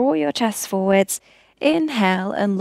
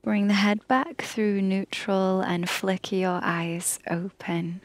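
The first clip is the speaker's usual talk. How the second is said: whispered guidance; 4 dB quieter than usual. Acted. Yoga teacher guiding neck circles.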